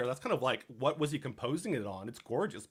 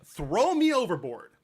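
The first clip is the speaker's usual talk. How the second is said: slow, louder, theatrical "throw me overboard"; dramatic offer; 4 semitones higher, 6 dB louder than usual. Retold or imitated. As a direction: play it like a grand self-sacrifice. Jonah dramatically volunteers.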